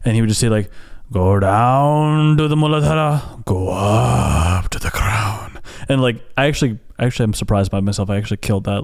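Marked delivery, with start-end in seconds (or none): 1.1-5.6 rough, gruff voice, very slow and drawn out. Quoting a monk who led spinal breathing meditation, gruff voice. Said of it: "this guy had such a gruff voice".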